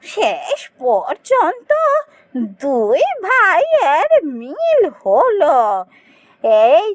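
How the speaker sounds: slow, choked-up joy; drawn out, close to tears with relief; old woman moved by the brothers' reunion, tearful. Acted. Old woman sees brothers reconciled.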